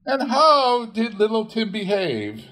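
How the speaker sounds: high, lightly voiced mother; mother's fond question. A narrator's reading. Missus Cratchit asks Bob about Tiny Tim, high fond voice. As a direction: ask fondly like a mother.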